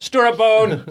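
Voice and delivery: loud, eager naming shout; excited exclaim. Retold or imitated. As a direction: proudly blurt out the name. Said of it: "Someone's like".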